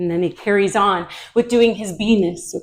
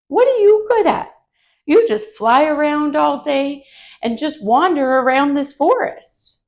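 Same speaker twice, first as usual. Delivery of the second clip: high, louder bragging skunk voice; boastful skunk; 5 semitones higher, 4 dB louder than usual. Acted. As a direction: show off over the little bee, high and pleased. Skunk brags to Buzzy Bee.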